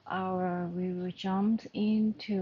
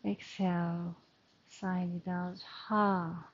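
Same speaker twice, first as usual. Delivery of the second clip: measured meditation guidance with long pauses; guided breathing meditation. Acted. Yoga teacher settling the class into their breath, calm guided meditation. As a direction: lead the breathing calmly, leaving space between phrases.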